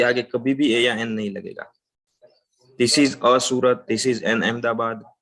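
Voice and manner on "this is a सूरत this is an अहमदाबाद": slow, deliberate example list; slow wrong examples. Shown as a demonstration. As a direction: read the wrong examples slowly. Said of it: "wrong". (धीमे-धीमे गलत उदाहरण)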